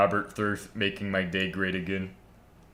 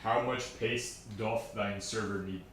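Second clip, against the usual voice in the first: mock Shakespearean; 6 dB quieter, slower than usual. Mock old English phrasing.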